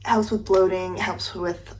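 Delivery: words slurred by a retainer; wearing a retainer. Real, not acted. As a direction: speak with a retainer in. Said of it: "I can't talk with my retainer in".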